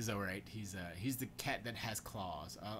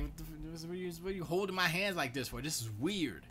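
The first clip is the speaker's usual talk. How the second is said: quick, higher-pitched retold bewilderment; baffled protest; 6 semitones higher than usual. Reacting to hands being held like this, baffled protest. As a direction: blurt it out, mock weirded-out.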